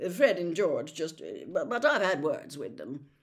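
hesitant, stumbling excuse; flustered, halting reply; mumbled evasion. A narrator's reading. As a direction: fumble for words to placate your wife. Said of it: "mumbled Mister Weasley".

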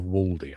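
Waldy with a long rounded 'aw', 'WAWL-dee'; posh Waldy. Retold or imitated. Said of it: "You're very posh".

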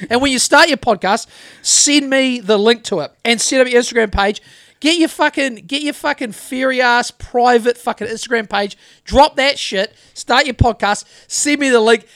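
loud taunting rant at a critic; mock tirade. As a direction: taunt him to start his own show.

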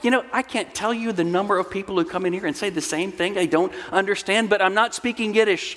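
lightly voiced impatient psychiatrist; exasperated doctor. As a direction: act out a doctor explaining the obvious. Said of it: "And the doctor said".

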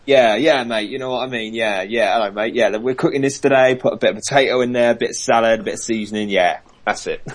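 lightly put-on Cockney accent, Jamie Oliver style. Shown as a demonstration. British co-host shows the American host how Cockney sounds, in a light Cockney accent. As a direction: chat like a matey Cockney TV chef. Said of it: "which sounds like this".

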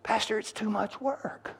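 high, slow, whining complaint to the pastor; a congregant whining to the pastor that it's too much work; whiny excuse. Acted. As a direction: moan it like a put-upon husband. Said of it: "And you say".

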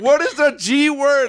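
quoting himself. Retold or imitated.

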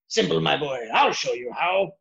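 a hint of a New York accent; lightly voiced New York boss. Shown as a demonstration. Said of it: "a Boston type accent, like a New York accent".

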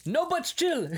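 high, loud quoted line; shopkeeper line. Retold or imitated. Retelling the shopkeeper's refrain, high and loud. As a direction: belt it in his voice. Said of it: "all you hear is".

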